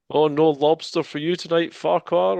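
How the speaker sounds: mock heckle. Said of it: "something along the lines of".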